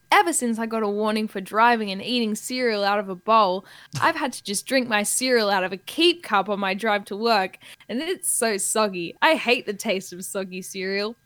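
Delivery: radio ad character. Acted. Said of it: "two people in conversation".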